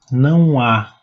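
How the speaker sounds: "não há" said as one joined sound; vowels run together. Shown as a demonstration. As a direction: link "não" into "há" without a break. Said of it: "ele fica junto do não".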